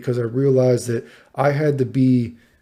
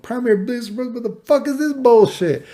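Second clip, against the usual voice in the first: higher, outraged disbelief; 11 semitones higher, 3 dB louder than usual. Retold or imitated. Reacting to new diagnosis.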